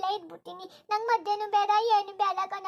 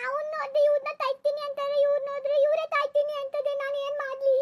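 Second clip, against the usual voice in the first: tearful plea; 3 semitones higher than usual. Acted. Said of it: "ಅಳ್ಬೇಡ, ಈಗ ಅಳ್ಬೇಡ".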